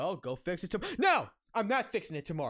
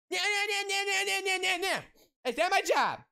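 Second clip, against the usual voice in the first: high, loud sing-song nah nah mockery; mocking sing-song; 12 semitones higher, 4 dB louder than usual. Ranting employee mimics coworker refusing the job, high sing-song mockery. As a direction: sing it high like a kid dodging work.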